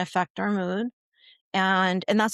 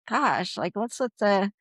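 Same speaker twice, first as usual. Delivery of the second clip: exasperated parent; 2 semitones higher, 4 dB louder than usual. Retold or imitated. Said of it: "get really like".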